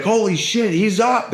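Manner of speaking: high shocked gasp of disbelief; stunned nurse. Retold or imitated. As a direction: squeal it like a nurse who can't believe it.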